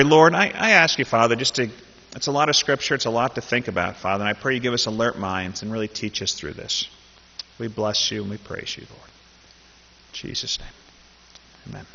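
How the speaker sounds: earnest, hushed prayer that fades to a whisper; spoken prayer. Acted. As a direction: pray sincerely, letting it drop away at the end. Pastor prays before the reading.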